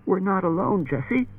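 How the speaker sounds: hopeless. A narrator's reading. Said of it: "Bailey said hopelessly".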